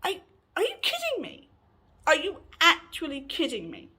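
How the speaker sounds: high-pitched disbelieving question; retold incredulity. Stunned at housemate's outburst, high incredulous retelling. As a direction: start very high in mock-outraged disbelief.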